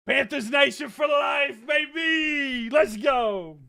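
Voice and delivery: high, stretched-out team cheer; hyped fan cheer. Real, not acted. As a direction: draw it out like a proud fan.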